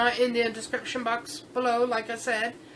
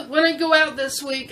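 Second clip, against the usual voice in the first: teary. Real, not acted. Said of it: "This one's a happy cry".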